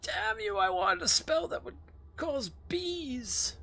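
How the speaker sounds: high, outraged complaint; frustrated. Real, not acted. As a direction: whine up high in protest. Wanted a bee spell.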